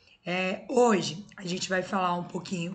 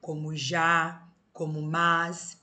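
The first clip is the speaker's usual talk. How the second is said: slow, careful já and mas; slow example words; 2 semitones lower, much slower than usual. Shown as a demonstration. Teacher reading stressed monosyllables to the class, slowly. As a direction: lay out each example slowly. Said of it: "Sempre serão acentuados os monossílabos tônicos".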